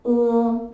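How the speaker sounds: 으 sung out loud and long as one pure vowel; teacher's model vowel. Shown as a demonstration. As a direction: model 으 clearly, loud and held. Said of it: "으어가 아니라 시작". (크게 또렷한 모음 으 시범)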